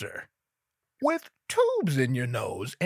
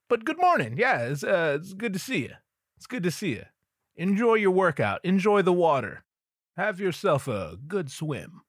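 bright, higher innocent greeting; fake friendly; 3 semitones higher than usual. Dave greets the swimmer innocently, falsely cheerful. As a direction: cover the creepiness with cheer.

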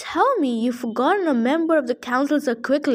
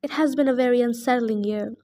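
panicky satyr. Acted. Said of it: "I could hear the panic in his voice".

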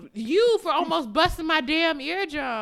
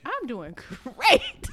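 tipsy, giggling through a slow line; 4 dB louder, much slower than usual. Real, not acted. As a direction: giggle mid-sentence, slow and loose.

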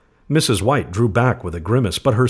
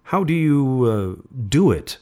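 slow, higher, halting question; hesitant; 4 semitones higher than usual. A narrator's reading. Old man asking how the paw works, hesitantly. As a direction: draw out the question, then hesitate.

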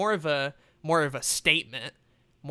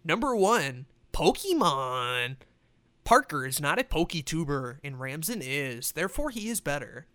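announcer-style hyped gamer voice; hyped gamer bro. Pretend. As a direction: pump it up like a gamer countdown. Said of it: "let me do like a gamer voice".

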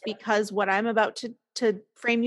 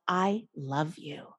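tender self-talk; 4 semitones lower, 6 dB quieter, slower than usual. Retold or imitated. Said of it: "with all these different tones and reflections".

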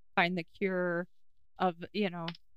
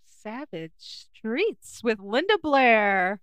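slow, loud announcement of title; dramatic reveal; 7 dB louder, much slower than usual. Real, not acted. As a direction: announce the title slowly and loudly. Reading out the picked title.

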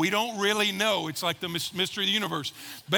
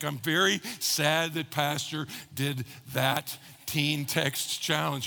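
slow, low mock-sad teenager; mock sad teen; 5 semitones lower, slower than usual. Teen pretending to be sad about the pastor's challenge, mock sulking. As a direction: sulk it out like a pouting teen. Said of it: "very sad face".

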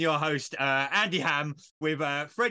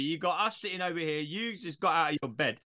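laughing scold; 5 semitones higher, 4 dB louder than usual. Real, not acted. Host laughing while scolding.

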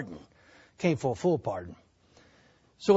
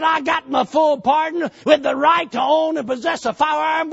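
triumphant; 6 semitones higher, 5 dB louder than usual. Retold or imitated. He tells wife triumphantly.

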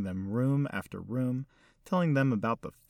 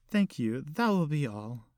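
put-on elderly lady; 5 semitones higher than usual. Hostess dismisses servers.

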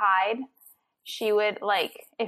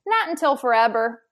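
put-on little girl refusing; 2 semitones higher, 7 dB louder than usual. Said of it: "she's like".

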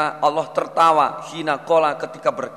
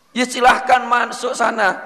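raised, cheerful go-ahead; high playful voice; 8 semitones higher than usual. Acted. Teacher voicing God inviting the man in, high and cheerful. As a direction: lift the voice high and wave them in.

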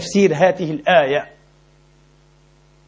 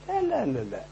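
laughing no; 7 semitones higher, 11 dB quieter than usual. Real, not acted. Mocking rejection of misconception.

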